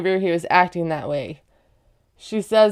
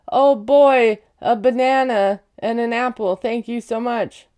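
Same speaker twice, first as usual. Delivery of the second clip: mock gratitude; 2 semitones higher than usual. Mock thanks she was expected to give.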